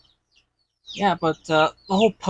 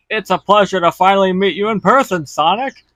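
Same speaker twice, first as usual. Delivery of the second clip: a lightly voiced, slightly louder dramatic hero line; Shadow voice; 3 semitones higher, 6 dB louder than usual. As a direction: attempt a brooding anime rival, not quite landing. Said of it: "See, that, that sounds terrible".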